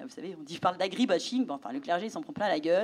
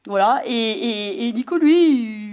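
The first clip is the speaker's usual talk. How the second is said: emotional; 10 dB louder, much slower than usual. Real, not acted. Sommet d'émotion en racontant.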